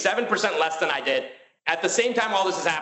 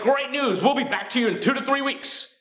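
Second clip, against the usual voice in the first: high, overly cheerful banker voice; chirpy salesman; 10 semitones higher than usual. Retold or imitated. The banker cheerily announcing a three-week wait, mock chipper. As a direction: sell the bad news brightly. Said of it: "He's like".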